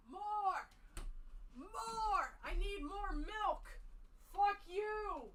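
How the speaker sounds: high, soft, goofy grumbling character; silly tipsy rant voice. Pretend. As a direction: play a cranky kid claiming the milk. Silly drunk-ish milk rant.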